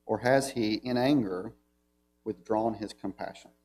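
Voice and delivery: measured, solemn reading of the psalm; scripture reading. Acted. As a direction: read it out as holy text to the church. Reads psalm aloud to congregation.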